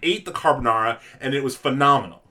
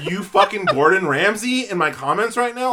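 laughing exasperation; 6 semitones higher, 4 dB louder than usual. Real, not acted. Exasperated rant at commenters.

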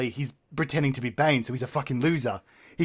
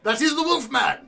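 Joker voice; 7 semitones higher than usual. Acted. Joker character.

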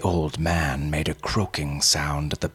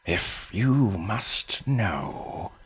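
put-on old man voice; 4 semitones higher, slower than usual.

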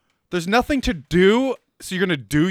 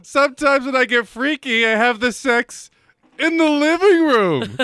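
hammed-up seducer; 5 semitones higher, 3 dB louder than usual. Mock seductive line continued.

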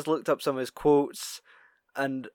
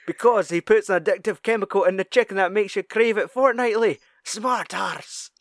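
hint of a ranting Scottish dad, a bit higher; Stuart's dad; 5 semitones higher than usual. Retelling the dad's rant to his friend, lightly voiced dad. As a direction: fire the rant off like the paranoid father. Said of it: "it's the way he fires it off".

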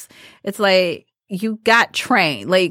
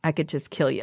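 low threat; 6 semitones lower, 6 dB quieter than usual. Retold or imitated. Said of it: "very low".

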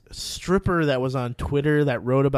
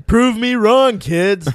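challenge; 7 semitones higher, 8 dB louder, much slower than usual. Real, not acted. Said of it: "Tune in".

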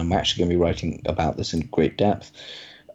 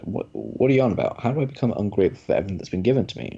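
taken aback, speeding up; mock-baffled protest, words rushing out; indignant disbelief; faster than usual. Rich rancher protests to Moses, indignant disbelief.

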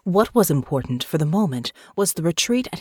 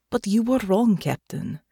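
rising high, impassioned; passionate plea; 7 semitones higher than usual. Acted. Natasha insisting to the captain, high and impassioned. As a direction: pour it out, voice climbing with conviction.

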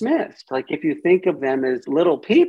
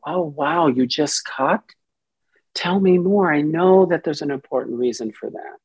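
loving curious; 2 semitones higher than usual. Shown as a demonstration. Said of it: "in my loving, curious space".

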